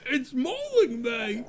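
high, drawn-out mock cry; comic cry of pain; hammed-up panic. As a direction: wail as if a hound is on you. Acting out mauling by the hound.

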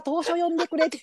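mimicking the host's machine-like read; mock Siri voice. Cohost teasing the host's Siri-like greeting. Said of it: "初っ端からシリ出てきた".

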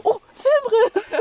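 hoch und laut, langsam gedehnt ausgerufen; begeisterter Ausruf. Retold or imitated. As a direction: wie plötzlich erleuchtet herausplatzen. Fio errät begeistert das Wort. (Fio hat das Wort erraten, laut und langsam jubelnd)

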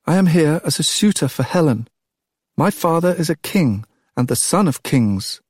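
put-on a nervous boy announcing himself, high and scratchy. A narrator's reading. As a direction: force out the words after long silence. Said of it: "My voice sounded high and scratchy with disuse".

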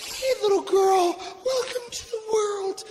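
high-pitched cooing mother voice; wife greeting newborn. Retold or imitated. Wife to newborn daughter, high tender greeting. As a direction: coo it high to a newborn baby. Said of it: "She's like".

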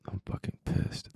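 whispered, raw inner anger; a secret furious whisper; hushed inner voice. Retold or imitated. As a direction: let the hidden rage slip out under your breath.

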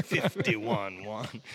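put-on very slow, drawn-out Scottish accent. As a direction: savour each word with a Scottish brogue. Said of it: "you do the accent".

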